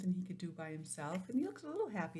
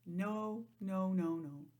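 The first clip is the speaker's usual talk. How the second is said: firm no; slower than usual. Real, not acted. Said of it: "Miss Joanne does not like spiders".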